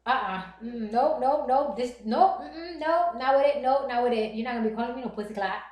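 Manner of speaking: rattled-off mock indignant refusal; sassy retold telling-off. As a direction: refuse point-blank, piling up the nopes. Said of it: "I just lost my mind".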